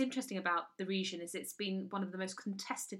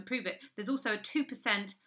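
normal talking voice

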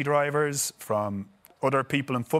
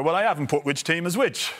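laughing while quoting; 5 semitones higher than usual. Retold or imitated. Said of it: "then he just went".

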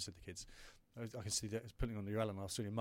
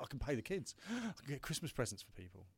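higher, with a gasp of joy; elated relief; 5 semitones higher than usual. Retold or imitated. Father hearing the investment came through, elated gasp. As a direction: burst out with sudden relief. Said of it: "just the elation".

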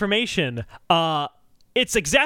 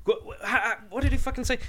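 laughing; 5 semitones higher, 4 dB quieter, faster than usual. Real, not acted. Laughing while trying to recall.

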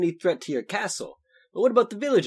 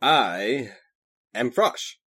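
deep voice pushed from the diaphragm; deep projected voice; 8 semitones lower, much slower than usual. Acted. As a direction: announce your name deep and proud to the hall. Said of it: "spoke from the diaphragm so his voice would carry".

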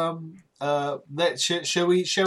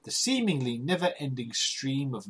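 put-on posh accent; 5 dB quieter than usual. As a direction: read it like a plummy aristocrat. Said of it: "in a posh accent".

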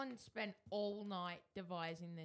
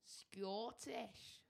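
Scottish accent. Shown as a demonstration. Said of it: "using a Scottish accent".

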